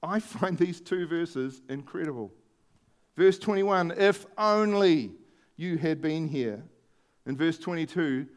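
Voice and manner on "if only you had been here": regretful. Shown as a demonstration. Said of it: "You can hear the contrast".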